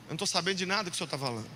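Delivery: meek, hurried grandson voice; sheepish grandson. Acted. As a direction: confess ignorance hurriedly to grandpa. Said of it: "eu falo".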